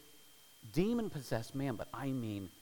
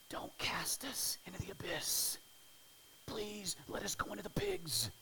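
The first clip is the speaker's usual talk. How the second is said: pleading in a whisper, pitched up; whispered demon plea; 6 semitones higher than usual. Retold or imitated. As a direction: beg like frightened demons, whispering. Demons begging Jesus, voiced.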